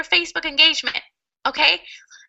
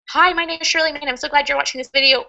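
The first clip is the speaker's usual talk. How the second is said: weak opener read quickly; faster than usual. Shown as a demonstration. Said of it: "compare the script A to script B".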